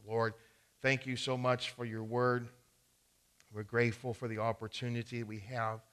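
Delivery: soft, earnest prayer voice. Acted. Pastor leading the church in soft prayer. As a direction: pray gently for the group.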